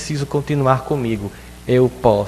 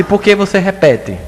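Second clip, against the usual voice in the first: put-on child's question; 7 semitones higher, 5 dB louder than usual. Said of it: "Eu disse".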